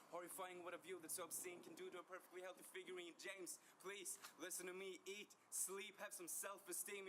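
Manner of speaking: urgent pleading. Acted. Pleading with James to look after himself, urgent pleading. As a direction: build from verse into insistent begging.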